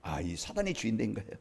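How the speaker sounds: sudden drop to a soft, low voice; hushed answer. Acted. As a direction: let the answer fall away very quietly. Answers own question as a realisation.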